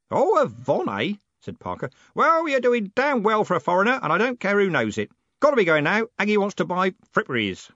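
put-on loud, high, hearty old man; blustering old merchant who never lowers his voice; old merchant booming at the young postman. A narrator's reading.

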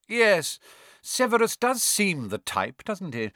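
high, sharp sneering villain; cold and sharp. A narrator's reading. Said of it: "but cold and sharp".

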